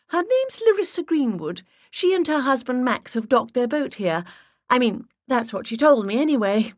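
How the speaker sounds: sweet high-pitched put-on voice. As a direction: push the voice way up and play the charming visitor. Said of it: "giggled once more".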